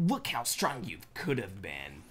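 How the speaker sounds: put-on lightly done Boston accent; slow Boston accent grumble. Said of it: "my Boston accent on that".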